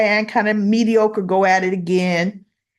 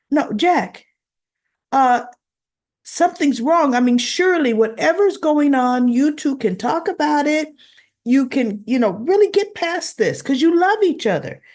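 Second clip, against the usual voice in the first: Tracy pleading; 5 semitones higher than usual. Retold or imitated. Tracy pleads with Jack, voiced.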